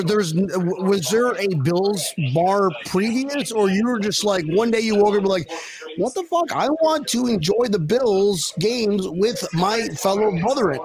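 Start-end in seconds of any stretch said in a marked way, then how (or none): 6.0-10.8 imagined outburst. Retold or imitated. Imagined fan's sudden thought.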